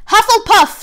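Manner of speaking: loud, high, drawn-out call of the house; booming Sorting Hat proclamation; hat shouting. A narrator's reading. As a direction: announce it to the whole hall. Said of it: "shouted the hat again".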